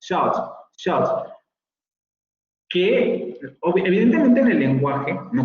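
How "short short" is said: "short" whispered with a rounded o for "shirt"; whispered Geordie short. Shown as a demonstration. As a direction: breathe "short, short" with an open o. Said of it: "pronunciation of shirt as short".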